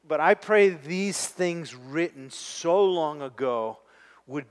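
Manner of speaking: earnest spoken prayer, unhurried. Acted. Pastor leading the congregation in prayer, earnest and steady. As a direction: pray for the struggling friends, gently.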